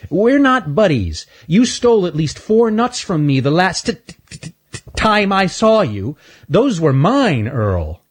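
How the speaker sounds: high squirrel stammering on t; stuttering squirrel. Acted. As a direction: get stuck on the t, indignant. Stanley stutters accusingly.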